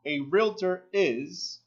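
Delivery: slow, drawn-out realtor; slow emphasis. Shown as a demonstration. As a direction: stress realtor slowly. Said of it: "pay attention".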